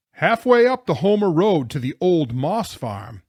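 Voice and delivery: loud, high, emphatic call; shouted reply. A narrator's reading. Jonathan giving the driver directions, shouted reply. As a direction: holler it up over an engine.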